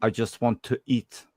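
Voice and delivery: slow, understated attempt at a movie hero's line; bad Van Damme impersonation. Co-host acting out his favorite movie scene, bad impersonation. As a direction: do a poor, half-hearted action star impression, slowly. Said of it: "a really shitty impersonation".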